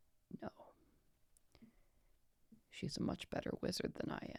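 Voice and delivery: very quiet, pained, hurting whisper. Narrator voicing a character who speaks so only the listeners hear: pained whisper. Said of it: "and she whispers".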